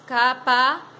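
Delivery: capacete split as "ca... pa... cete"; slow, separated "ca-pa-cete"; broken into syllables. Shown as a demonstration. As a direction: pause inside capacete after "ca" and "pa". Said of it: "quando diz".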